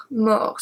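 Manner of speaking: "mort" ending on the R, T left silent. Shown as a demonstration. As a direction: say "mort" without sounding its final T. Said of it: "we don't pronounce the T".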